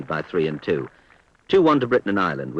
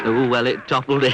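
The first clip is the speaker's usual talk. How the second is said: laughing in relief; 5 semitones higher, 4 dB louder than usual. Real, not acted. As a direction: chuckle as the putt drops. Putt drops unexpectedly.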